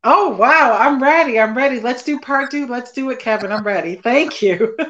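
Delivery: thrilled yes, I'm ready, let's go; excited. Real, not acted. Guest accepting the host's invitation back, loud excited eagerness.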